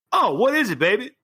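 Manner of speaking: high, swooping question; eager, high-pitched showman; showy eager character. Acted. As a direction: ask it like a flamboyant wrestling boss. Asmodeus answers his old buddy.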